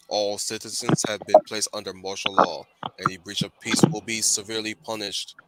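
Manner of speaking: flat metallic announcer; robotic PA announcement. Pretend. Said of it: "my robot voice".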